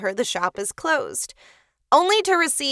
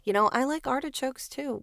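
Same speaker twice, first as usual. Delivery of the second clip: whisper; 2 semitones higher, 5 dB quieter than usual. Real, not acted. Aside while chatting about vegetables.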